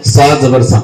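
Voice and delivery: "صاد زبر سا" with a slightly thick, heavy s; thick saad. Shown as a demonstration. Teacher showing how saad should sound, thick "صاد زبر سا". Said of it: "صاد کو تھوڑی موٹی آواز نکالنا چاہیے".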